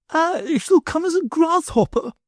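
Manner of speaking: high, calm noblewoman; calm lady. A narrator's reading. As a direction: state it calmly and grandly. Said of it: "my lady calmly proceeded".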